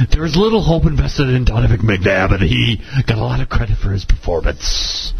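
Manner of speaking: mild mock radio-host rant; a hint of a pompous talk radio host; lightly voiced Rush. Podcast host quoting Rush's NFL remarks in a light impression. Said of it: "I can't do a very good Rush".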